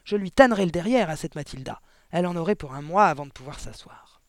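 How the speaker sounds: blustering headmistress fury; thundering threat. A narrator's reading. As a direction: threaten with relish and outrage. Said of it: "tonna mademoiselle Le Gourdin".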